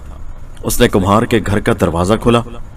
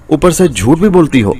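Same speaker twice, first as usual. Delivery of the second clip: higher, angry thundering accusation; roaring; 6 semitones higher than usual. A narrator's reading. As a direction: potter thunders at his lying wife. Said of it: "कुम्हार ने गरज कर कहा".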